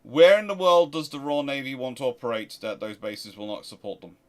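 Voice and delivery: normal talking voice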